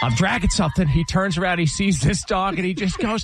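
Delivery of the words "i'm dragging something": dad's alarmed yell. Retold or imitated. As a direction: holler it as the dad tugging a stuck cord. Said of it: "And he's like".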